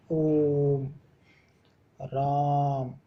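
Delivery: ओम and राम each held long on the vowel; drawn-out vowels. Shown as a demonstration. Teacher demonstrating pluta on ओम and राम, vowels drawn out. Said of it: "ये प्लुत स्वर होता है".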